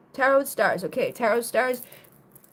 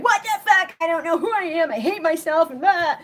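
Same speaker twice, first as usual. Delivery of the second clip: louder, higher mock panic; mock crash out; 5 semitones higher, 4 dB louder than usual. Mocking people crashing out, louder and higher. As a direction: ham up a frantic meltdown. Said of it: "They're like".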